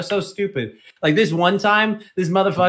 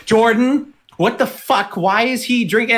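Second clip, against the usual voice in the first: mock angry manager; 8 semitones higher than usual. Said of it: "the manager came out and was like".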